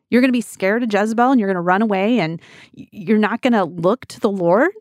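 mock impatient rebuke to a despairing prophet; judgy scolding. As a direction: tell him to pull it together, half mocking. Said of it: "judgy of Elijah, going".

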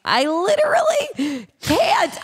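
high, drawn-out overwhelmed wail; dramatic, slow, high-pitched despair; exasperated disbelief. Real, not acted. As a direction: stretch it out high, utterly done. Aghast reaction to embarrassing story.

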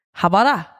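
put-on Swiss accent, run together as one word; Swiss German accent. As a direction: say it like a Swiss father-in-law. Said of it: "he says it in his Swiss accent, so it sounds like one word".

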